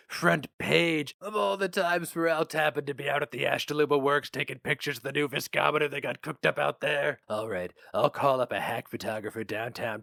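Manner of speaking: lightly voiced gruff newspaper boss; a hint of a jaded editor reminiscing; boss Flammer. Flammer gives orders.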